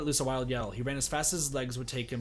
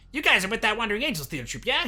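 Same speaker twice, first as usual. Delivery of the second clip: raised, louder confident address; pushy newcomer, loud; 7 semitones higher, 7 dB louder than usual. A narrator's reading. Pushy man to the van's occupants, loud and brash. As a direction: call out a brash question.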